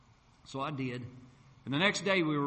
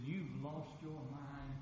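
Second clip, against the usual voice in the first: mock hushed disbelief; 11 dB quieter, much slower than usual. Wife reacts to his prayer.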